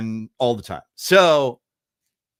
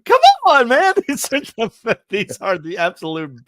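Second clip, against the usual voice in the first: much higher and louder, moved; overwhelmed exclamation; 11 semitones higher, 6 dB louder than usual. Real, not acted. Host overcome recounting the Christmas ad, high loud cry. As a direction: burst out with feeling. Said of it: "I get sentimental".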